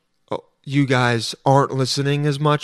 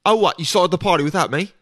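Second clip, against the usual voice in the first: put-on British accent; 4 semitones higher than usual. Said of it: "always saying some shit like".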